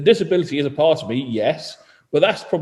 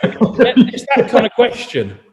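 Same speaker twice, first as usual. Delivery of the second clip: said slowly through a laugh; 8 semitones higher, 4 dB louder, slower than usual. Real, not acted. Laughing after cheeky joke.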